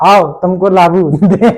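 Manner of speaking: slow, playful threat broken by laughter; mock motherly threat. Teacher playing mother answering child about lauki, laughing mock threat. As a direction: imitate a mother's comeback, laughing through it. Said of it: "कहेंगी".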